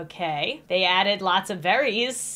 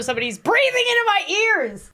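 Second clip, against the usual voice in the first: higher, agitated exclaim; freaked out; 9 semitones higher, 4 dB louder than usual. Real, not acted. Telling viewers someone breathes in her ears, freaked out. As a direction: let the panic push the pitch up.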